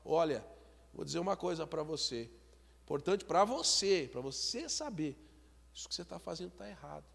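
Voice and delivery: a wise wife calmly correcting her husband; gentle wife. Retold or imitated. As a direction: speak mildly to the husband like a shield against anger. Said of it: "ela chega pra ele e fala".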